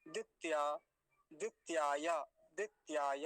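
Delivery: दित्या with t joined straight onto ya; half t. Shown as a demonstration. Teacher corrects the half t in दित्या, t and ya joined. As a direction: say दित्याय with no vowel between t and y. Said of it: "तकार आधा है".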